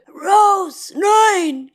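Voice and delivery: high, loud drawn-out cry; shouted warning. A narrator's reading. Calling Rose off as Jacob is pinned, shouted. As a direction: cry out to stop her.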